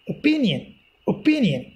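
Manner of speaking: opinion as o-PIN-ion, PIN stressed; stress on second syllable. Shown as a demonstration. Teacher modelling word stress for students, opinion stressed on -PIN-. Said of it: "P is pronounced stressly".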